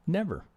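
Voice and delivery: never dropped soft and falling; quiet final never. Shown as a demonstration. Trader closing his point to students with a quiet never. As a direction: let never land as a soft closing word. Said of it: "did I say ever?".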